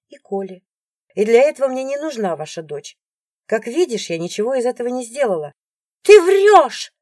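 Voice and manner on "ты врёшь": high, loud shriek of liar; screaming. A narrator's reading. Rival screaming at the ex-wife. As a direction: scream it at her. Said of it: "орёт Алиса".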